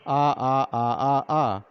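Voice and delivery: "आ" repeated as even, separate ahs; repeated vowel sound. Shown as a demonstration. Teacher pointing out the shared sound, "आ" repeated evenly. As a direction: tap out each "आ" in a steady series. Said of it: "इसी आवाज़ पर क्या चल रहा है".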